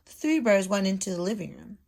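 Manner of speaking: storybook read-aloud voice; lively picture-book reading; reading to children. Acted. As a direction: read it like a teacher to her class. Teacher reads story aloud.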